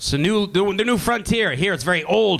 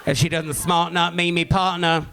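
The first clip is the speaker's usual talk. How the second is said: slow, lightly voiced dull British cop; deadpan it like a bored constable; British reality TV cop; slower than usual. British reality TV cop narrating, lightly voiced and slow. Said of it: "They'd be like".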